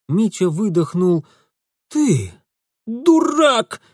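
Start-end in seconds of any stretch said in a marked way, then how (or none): 1.9-3.8 loud, high spat insult. A narrator's reading. Girl spitting an insult at Mitya. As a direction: spit the word at him. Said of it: "выплюнула она".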